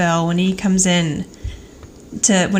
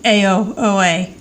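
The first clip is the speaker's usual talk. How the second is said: imitating Angela; slower than usual. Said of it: "we get Angela saying".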